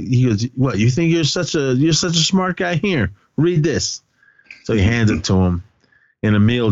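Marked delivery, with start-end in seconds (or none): 0.5-4.0 higher-pitched mock taunt, slowing at the end; retold scornful challenge. Principal daring Emil to read, mock scornful.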